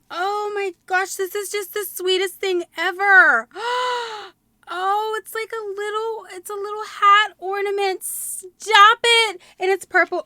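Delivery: gushing excitement. Real, not acted. Gushing over handmade ornament.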